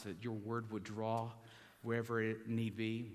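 steady earnest prayer voice. Acted. Preacher praying over funeral gathering, earnest prayer. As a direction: lead the room in prayer.

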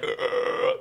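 soft breathy unvoiced grunt, imitating a dying man; a quiet throaty ugh, half-hearted imitation; mock dying groan. Mimicking the dying victim's noise on the staircase, a quiet breathy grunt. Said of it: "that noise that he's making".

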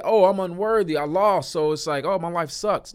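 lightly hammed-up moping; mock self-pity.

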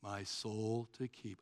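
dull, rote mumbled grace; Eeyore. Acted. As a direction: recite it by rote, soft and lifeless. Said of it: "we sound like Eeyore of Winnie the Pooh".

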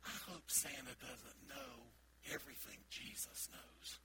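put-on soft, slow, hushed child's hope; slow murmured childhood worry; child's hushed wish. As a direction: wish it quietly like a little kid. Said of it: "but I remember thinking".

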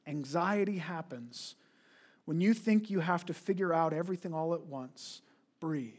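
lightly mocking soothing voice; soothing self-help read. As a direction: read it like a gentle wellness post. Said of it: "a quote I just read".

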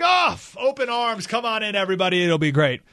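mock-eager welcome, starting high and easing down; welcoming Canada. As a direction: play an over-welcoming host nation. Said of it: "And Canada's like".

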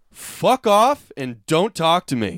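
slow, deliberate cold threat; each word spaced to intimidate; slow menacing retort. Retold or imitated. To the anti-masker behind her, slow cold threat. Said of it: "and I said".

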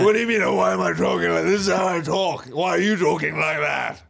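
affected upper-crust indignation; pompous millionaire defending his speech; rich person's talk. Acted. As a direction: put on a haughty rich-man voice. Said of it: "This is how a rich person talks".

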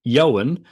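Ioan said "YO-un", two syllables; correct pronunciation. Shown as a demonstration. Co-host repeats the right first name, Ioan as "YO-un". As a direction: say Ioan with a Y sound first, "YO-wun". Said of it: "So it is".

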